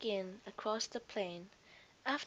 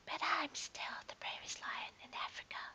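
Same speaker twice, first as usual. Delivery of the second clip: soft, higher, tiny whisper of bravado; small voice; 7 semitones higher, 5 dB quieter than usual. A narrator's reading. Faetua after the cheetah, doubting himself, small and quiet. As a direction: brave words but barely believing them. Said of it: "in a rather small voice".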